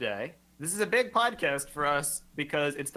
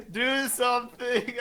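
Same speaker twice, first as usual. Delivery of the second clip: joking demand; 8 semitones higher, slower than usual. Pretend. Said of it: "I'm kidding".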